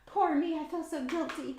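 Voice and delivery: high, mock self-pitying whine; mocking whiny guilt. Mocking the show's hero who wallows in guilt, high whiny. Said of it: "the whole".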